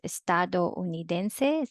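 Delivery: estadounidense with o and u split as two syllables; wrong way. Shown as a demonstration. Teacher showing what some people say, estadounidense in separate syllables. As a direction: estadounidense as es-ta-do-u-ni-den-se. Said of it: "separate syllable".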